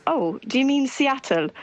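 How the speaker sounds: put-on "Seattle" in a crisp standard accent, t fully pronounced, slowed; mock the desk clerk's correction, "Seattle" said properly; correcting standard accent. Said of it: "the woman at the desk saying".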